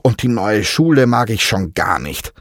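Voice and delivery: put-on a boy listing his woes, fed up; boy complaining to his parrot, a touch whiny; frustrated complaint. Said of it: "klagte er frustriert".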